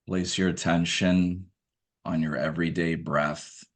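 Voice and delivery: measured meditation guidance, spaced out by long pauses; guided meditation. Acted. Guide asking listeners to observe their everyday breath, guided meditation. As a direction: calmly direct attention to the breath, leaving room between phrases.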